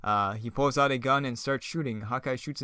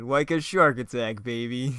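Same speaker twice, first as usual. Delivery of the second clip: slow, loud punch on "shark attack"; cheesy villain one-liner; 6 dB louder, slower than usual. Acted. Reader voicing the villain's terrible one-liner, hammy. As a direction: relish "shark attack" like a bad catchphrase.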